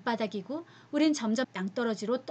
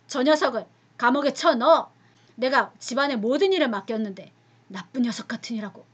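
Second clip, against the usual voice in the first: furious master; 6 dB louder than usual. Acted. Master angrily orders prison.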